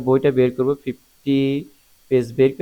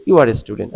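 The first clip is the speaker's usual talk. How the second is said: plain statement, dropping to a low end on "student"; falling intonation; 3 semitones lower, 4 dB louder, much slower than usual. Shown as a demonstration. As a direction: state "You are a student" with the tune going down. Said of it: "এটা falling intonation".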